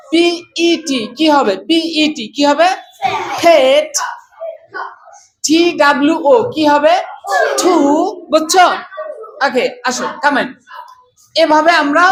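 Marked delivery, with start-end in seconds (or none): 3.4-3.9 ফেট as "pet" with a puffed P; changed aspirated P. Shown as a demonstration. Teacher answering how P-E-T is said, aspirated P. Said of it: "উচ্চারণটা change করে ফেলবা". 7.6-7.7 ঠু with a puff on the T; changed aspirated T. Shown as a demonstration. Teacher answering how T-W-O is said, aspirated T. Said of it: "উচ্চারণটা change করে ফেলবা".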